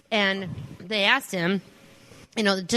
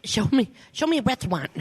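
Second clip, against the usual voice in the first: Kripke impression; 3 semitones higher than usual.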